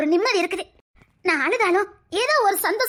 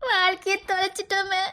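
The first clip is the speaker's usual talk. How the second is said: tearful lament. Acted. Wife grieving a lost life with her husband, tearful. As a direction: lament it twice, more desperate the second time.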